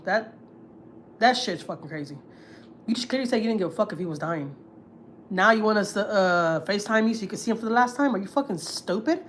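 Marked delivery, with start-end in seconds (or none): 5.3-9.2 indignant. Real, not acted. Outraged at mother-in-law's FaceTime request.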